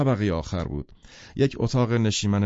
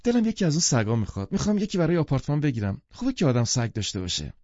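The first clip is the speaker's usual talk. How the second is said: higher and fast, gushing with desire; eager excitement; 5 semitones higher, faster than usual. Acted. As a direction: blurt it out like a thrilled shopper. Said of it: "با شور و شوق گفت". (با شور و شوق، تند و بلندتر)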